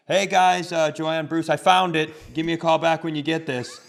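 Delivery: lightly disguised caller voice. Retold or imitated. Kid pranking his parents, lightly disguised voice. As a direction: put on a thin fake caller voice. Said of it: "disguise my voice and call and leave a message".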